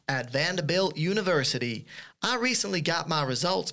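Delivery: a put-on Southern American accent reading the email. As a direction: read it like a Tennessee student. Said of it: "I'm gonna put an accent on now".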